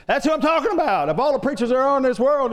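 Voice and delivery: high, loud retold exclamation; acted-out astonishment at full pitch; excited outburst. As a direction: burst out in amazed recognition.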